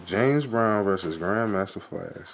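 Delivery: laughing out the name. Real, not acted. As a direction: crack up while saying it. Laughing at the singer pick.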